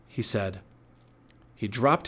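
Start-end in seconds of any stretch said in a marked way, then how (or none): none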